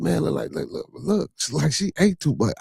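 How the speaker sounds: high, hushed mocking kid; lightly voiced kid whispering a rude joke. Kid quoted mocking woman.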